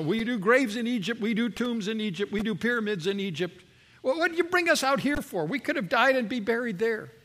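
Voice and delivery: high, quickening mock complaint; lightly hammed-up sarcastic grumble; sarcastic mockery. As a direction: sneer it like a bitter joke. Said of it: "there's a sarcasm said in that particular statement".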